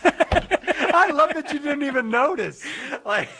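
talking through real laughter, high; laughing. Real, not acted. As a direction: giggle out the words, slowly. Laughing at teasing co-host.

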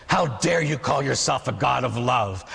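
slow, weighty rebuke; measured indignation. Acted. Old man accusing God over his dirt, measured indignation. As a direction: lean slowly on the accusation.

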